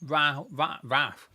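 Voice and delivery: talking through a mouthful of Kit Kat; crunching Kit Kat. Real, not acted. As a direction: chew and talk at once. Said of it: "apologies if you hear me crunching".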